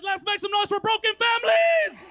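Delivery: shouting. Real, not acted. Hyping crowd on stage.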